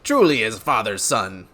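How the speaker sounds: hearty noble with a chuckle; uncertain character accent. Acted. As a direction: boast proudly in a put-on accent. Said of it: "what accent I'm going for this guy".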